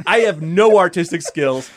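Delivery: slow and loud through a laugh; self-mocking laughing admission. Real, not acted. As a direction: laugh it out at yourself, slowly. Laughing at own lack of skill.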